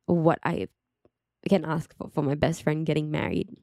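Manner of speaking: moved, holding back tears; emotional. Real, not acted. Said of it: "I'm getting emotional even just talking about it now".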